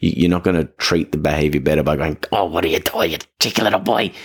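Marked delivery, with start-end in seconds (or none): 2.3-4.1 intense cooing. Shown as a demonstration. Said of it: "That may be way too intense".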